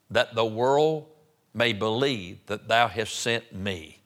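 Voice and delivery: slow, drawn-out verse reading; scripture reading. Real, not acted. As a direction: read solemnly from the pulpit, pausing between phrases. Reads scripture aloud.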